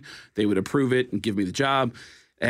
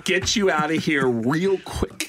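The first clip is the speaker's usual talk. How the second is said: voiced colleague; 3 semitones higher than usual. Voice actor hurrying the comedian out, put-on character voice. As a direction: stretch out the brush-off in character. Repeats Mike's line in exaggerated voice.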